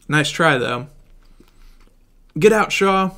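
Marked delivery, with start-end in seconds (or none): 2.4-3.1 shouting. Acted. Fight in the burning ship.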